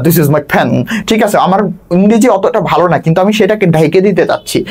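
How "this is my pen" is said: English sahib accent, "pen" puffed toward "fen"; put-on English sahib accent. Shown as a demonstration. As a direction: imitate an English sahib, accenting first sounds. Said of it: "accent দিয়ে উচ্চারণ করতেছি".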